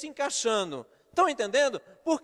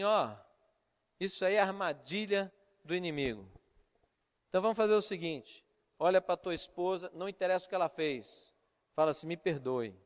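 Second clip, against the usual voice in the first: lower, softer reenacted counsel; calm pastoral counsel; 6 semitones lower, 4 dB quieter than usual. Pastor advising a husband to ask forgiveness, calm low counsel. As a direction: talk him down quietly.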